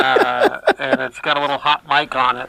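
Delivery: muffled through a respirator mic; through an n95 mask. Real, not acted. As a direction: talk through a face mask. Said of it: "This is my respirator that I'm talking through".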